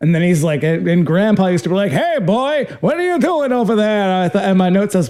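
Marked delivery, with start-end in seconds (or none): 1.9-4.2 put-on, high, old Borscht Belt comedian voice. Retelling a movie scene in an old Borscht Belt comedian voice. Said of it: "an old Borscht Belt comedian".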